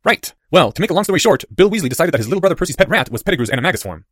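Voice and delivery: put-on boy launching into the punchline; Harry. A narrator's reading. Boy summing up for his friend, high and lively.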